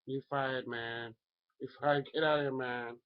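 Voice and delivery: hammed-up Trump kicking someone out; Trump impression. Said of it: "do a Trump impersonation".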